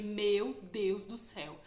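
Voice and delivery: slow, hushed gasp of dread; a slow, shaken "Meu Deus do céu"; dawning dread. Retold or imitated. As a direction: let the fear sink in as you say it. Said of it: "Aí eu falei".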